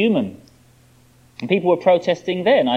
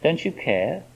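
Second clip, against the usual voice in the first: hushed plea to God; 6 dB quieter, slower than usual. Acted. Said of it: "sometimes we say it to God".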